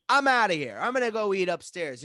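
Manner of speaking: re-enacted huffy outburst; acted storming off. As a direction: declare your exit in a huff. Acts storming out of quarrel.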